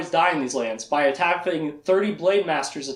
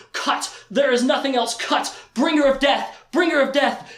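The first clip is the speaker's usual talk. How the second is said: mild mock battle cry; 5 semitones higher than usual. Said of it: "goes into a trance with the anger of the sword".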